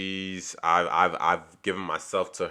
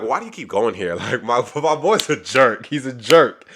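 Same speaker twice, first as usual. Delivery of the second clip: exasperated protest; 4 semitones higher, 7 dB louder than usual. Retold or imitated. Alex defending himself in argument.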